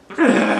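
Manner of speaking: cracking laugh. Real, not acted. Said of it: "Voice crack".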